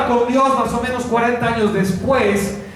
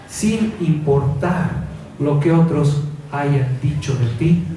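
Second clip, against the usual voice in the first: grave y pausada, más baja que el resto; exhortación pastoral íntima; 6 semitones lower than usual. Acted. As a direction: habla al corazón, despacio y bajo. (exhortación grave e íntima)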